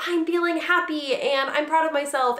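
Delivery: a hint of a proud little boy; imitating son. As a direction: son naming his feelings, lightly voiced child. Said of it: "he'll go through".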